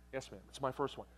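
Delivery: the new father answering the nurse, sheepish and soft. Retold or imitated. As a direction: answer like a scolded boy.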